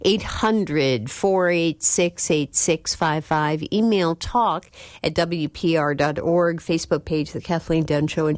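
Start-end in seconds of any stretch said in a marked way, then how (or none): 0.0-3.6 slow, careful phone number; slow number read. Real, not acted. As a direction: read each digit deliberately. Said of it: "welcoming calls at eight hundred".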